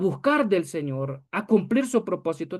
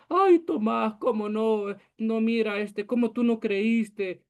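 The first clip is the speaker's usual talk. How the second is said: melodramatic mock reproach; 3 semitones higher, slower than usual. Preacher mocking a Jesus reproaching doubting Tomás, melodramatic. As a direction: overdo the hurt disbelief, slowing at the end. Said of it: "No fue con el drama".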